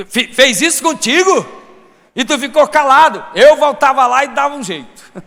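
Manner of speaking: egging someone on, incredulous and heated; mock indignation. Acted hot-headed believer egging on.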